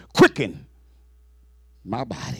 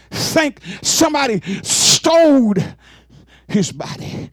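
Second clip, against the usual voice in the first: crying out; 4 semitones higher than usual. Real, not acted. Preacher imagining the stolen body, voice crying out. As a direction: voice cracking with a cry.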